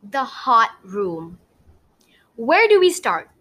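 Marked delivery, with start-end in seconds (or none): 2.3-3.3 put-on high, bright-eyed girl's question; eager schoolgirl asking where to start; Wilbur asking. A narrator's reading. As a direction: voice young Wilbur a step up. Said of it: "Wilbur asked".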